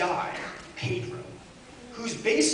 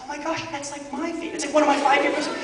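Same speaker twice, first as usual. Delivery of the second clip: excited gushing; 5 semitones higher, faster than usual. Retold or imitated.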